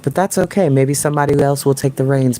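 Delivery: ordinary delivery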